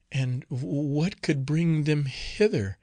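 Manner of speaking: slow, stammering, trembling with fear. Acted. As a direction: falter through it, barely daring to ask. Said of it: "said another in a trembling voice".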